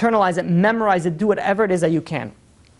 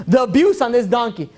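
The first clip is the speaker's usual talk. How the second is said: outraged protester; 6 semitones higher, 4 dB louder than usual. Acted.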